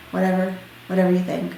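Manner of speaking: listless, understated surrender; defeated. Retold or imitated. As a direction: give up and leave it to them. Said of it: "he just was just defeated".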